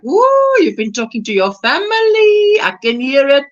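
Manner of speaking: high, sing-out teasing of a friend; teasing exclamation. Retold or imitated. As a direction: pipe up high, as if catching her out. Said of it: "She comes back and I'm like".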